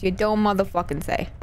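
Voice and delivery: dry sarcastic mutter; deadpan, unimpressed. Real, not acted. Sarcastic reply to game text.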